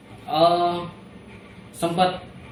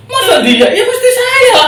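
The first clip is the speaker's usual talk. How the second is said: retold indignant protest; 7 dB louder than usual. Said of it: "saya bilang gitu".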